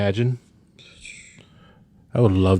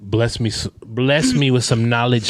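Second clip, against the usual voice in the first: hyped up; 5 semitones higher, 4 dB louder than usual. Acted. Hyping up the storyteller.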